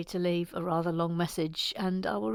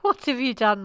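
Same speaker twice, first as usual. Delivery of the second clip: restrained dismayed question; mock reproach. Host blaming Mike, mild mock reproach.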